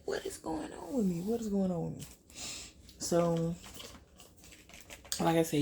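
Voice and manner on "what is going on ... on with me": higher, whispered panicky question; muttering in alarm; anxious whisper to self; worried whisper. Retold or imitated. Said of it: "I'm like".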